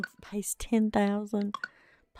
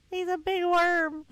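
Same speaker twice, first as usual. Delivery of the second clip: higher, laughing through it; 9 semitones higher than usual. Pretend. Laughing at the big worm to chat. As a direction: giggle the line at the worm.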